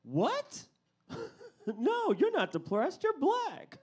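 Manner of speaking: high laughing dismissal; laughing doctor. Retold or imitated. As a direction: laugh him off. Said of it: "he said".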